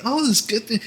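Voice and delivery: high, delighted greeting; very warm. Acted. Scholars greet the newcomers, very warm. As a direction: lift the voice in welcome. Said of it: "very warm".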